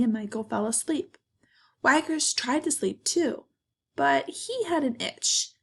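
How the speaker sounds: expressive storybook narration with pauses; reading to children. A narrator's reading. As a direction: tell it to kids, lifting and stretching key words. Reads picture book to children.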